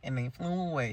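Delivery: slow wail leaping very high on each goodbye; hammed-up unhinged teacher, stuck on repeat; crazed Miss Keen. Broken teacher repeating herself to the girls, slow high crazed wail. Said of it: "She just keeps repeating it".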